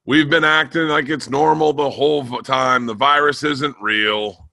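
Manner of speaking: heckler quote. Retold or imitated. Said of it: "someone in the crowd goes".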